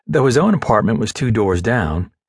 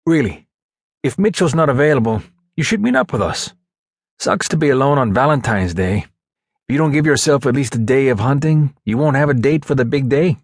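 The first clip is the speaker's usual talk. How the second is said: lightly raised teammate voice; persuading buddy; 3 semitones higher than usual. Acted. Teammate urges friend to join the hunt, lightly voiced buddy. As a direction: coax a friend to come along.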